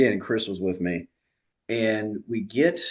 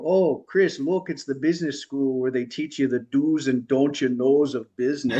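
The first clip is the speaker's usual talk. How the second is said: playful Minnesota "don't you know"; Minnesota accent; 4 semitones higher than usual. Retold or imitated. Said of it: "a really heavy Minnesota accent".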